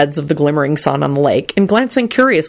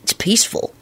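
soft reply; 5 semitones higher, 5 dB quieter than usual. A narrator's reading. Lupin softly answers Elizabeth's question.

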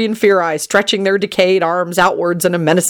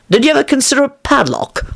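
light, higher-pitched amiable suggestion; 8 semitones higher than usual. A narrator's reading. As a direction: suggest it pleasantly, pitch lifted. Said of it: "Lupin suggested amiably".

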